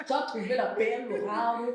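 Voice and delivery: put-on Cameroonian French accent. Shown as a demonstration. Host congratulating guest on her husband in a Cameroonian accent. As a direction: playfully take on a Cameroonian accent. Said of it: "je prends l'accent camerounais".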